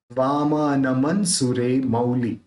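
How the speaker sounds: slow वामानमन with m and n joined; जोड़ के. Shown as a demonstration. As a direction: draw out the line, linking the न straight on in वामानमन. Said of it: "तुरंत उसको जोड़ के बोलना है". (वामानमन धीरे, न जोड़ कर)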